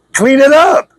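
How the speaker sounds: high, loud shouted order; forceful command. Real, not acted. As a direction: bark it at them like a final demand. Preacher's climactic command to listeners.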